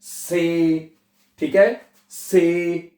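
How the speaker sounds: से drawn out with long "ay"; German C as "say". Shown as a demonstration. Teacher showing how to read C, long "say". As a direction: say से slowly, not "see". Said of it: "सी को आपने पढ़ना है".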